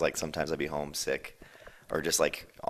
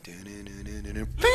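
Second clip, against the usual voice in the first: imitated horror music; 3 semitones higher than usual. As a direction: belt out creepy movie music. Imitating scary movie music.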